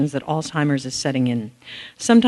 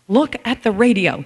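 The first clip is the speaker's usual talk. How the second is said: slow, mildly shocked imitation of dad; 3 semitones higher, 4 dB louder than usual. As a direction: zacht geschokt, vader nagedaan. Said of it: "he said in a shocked tone".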